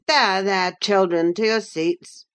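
Hindley bustling in; bustling command. Acted. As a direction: herd the children to their seats. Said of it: "cried Hindley".

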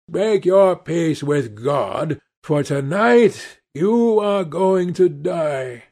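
slow, grim death threat; slow menace. Acted. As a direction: promise his death calmly. Avenger threatens to kill.

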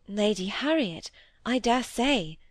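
ordinary delivery, nothing marked

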